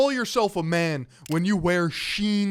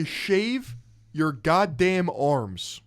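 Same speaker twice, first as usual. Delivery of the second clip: mocking quote; 3 semitones lower, much slower than usual. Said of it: "You're losing an argument, and you say".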